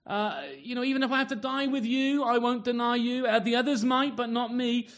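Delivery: high, boastful vow; boastful Peter. Retold or imitated. Peter boasting to Jesus, high proud vow. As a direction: brag that you'll never fail. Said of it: "when Peter's going".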